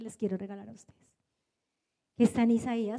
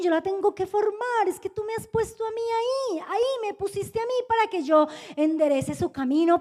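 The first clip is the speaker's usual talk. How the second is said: exasperated prayer; 3 semitones higher than usual. Retold or imitated. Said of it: "iba y oraba y le decía".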